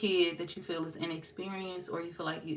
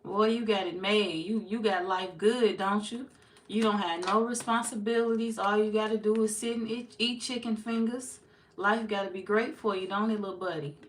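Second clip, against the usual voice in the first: mock-envious ribbing of a lazy kid, a bit louder; teasing a kid; 4 semitones higher, 5 dB louder than usual. Adult teasing a kid with no job, mock envy a bit louder. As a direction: rib the child about the easy life, a bit louder and higher. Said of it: "can talk to a child like that".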